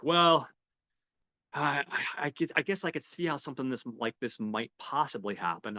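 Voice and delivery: hesitant. Retold or imitated. Officer weighs the bank staff's excuse, hesitantly conceding. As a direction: draw out a high "well", then concede haltingly.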